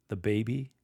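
put-on "The baby" with a questioning rise. Shown as a demonstration. Lector showing "The baby" asked as a question. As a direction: ask "The baby" rising at the end. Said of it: "Say the baby as a question".

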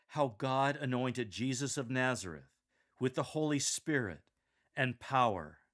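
"God", "Jesus of Nazareth", "Holy Spirit" and "power" punched loud; vigorous emphasis. Shown as a demonstration. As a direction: crescendo phrase by phrase to "power". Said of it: "Say this with vigor".

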